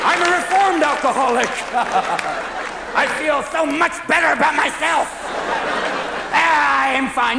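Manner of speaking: high, over-insistent mock delight; hammed-up recovered-addict cheer; forced cheer. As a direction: declare it a bit too brightly. Protests too much that he is cured.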